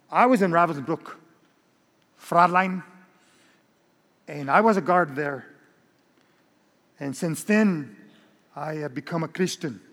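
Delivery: lightly voiced German accent of an ex-guard; a hint of a German accent, stiff and formal. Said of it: "You like my German accent?".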